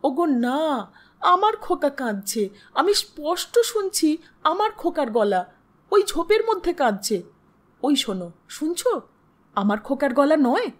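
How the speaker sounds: distraught, insistent pleading; shuddering insistence. Acted. Wife insisting to her husband she hears her child, distraught. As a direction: plead urgently, refusing to be soothed. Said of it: "বারবার শিহরিয়া উঠিয়া বলিয়াছিল".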